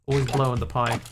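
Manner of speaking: imitating the meme guy's thick Kiwi accent, lightly; a hint of a broad New Zealand accent on always blow on the pie; strong Kiwi accent. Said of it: "he's got a real kicker of a Kiwi accent".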